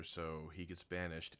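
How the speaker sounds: normal talking voice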